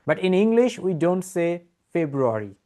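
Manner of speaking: slowly spelling out the point; patient teacher, slow and deliberate; slow explanation. Shown as a demonstration. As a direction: lay it out word by word, slowly. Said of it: "The right pronunciation of this word will be".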